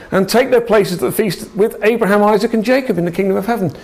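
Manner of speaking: Jesus proclaiming, excited and quick; prophesying. Retold or imitated. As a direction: rush to the climax of the prophecy. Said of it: "then he starts to prophesy".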